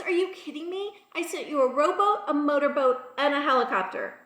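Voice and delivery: exasperated. Retold or imitated. God to drowned man about rescues sent, exasperated. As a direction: list it off in comic exasperation.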